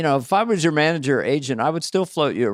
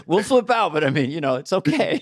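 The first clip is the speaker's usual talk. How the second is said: mock calm manager; 3 semitones higher than usual. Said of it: "I said".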